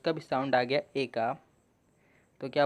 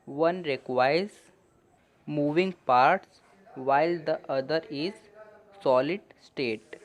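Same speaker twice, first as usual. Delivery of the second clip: slow, careful English reading for learners; slow reading aloud; much slower than usual. Shown as a demonstration. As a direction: read each phrase slowly and clearly. Reads English passage slowly for learners. (धीमे-धीमे साफ़ अंग्रेज़ी पढ़ना)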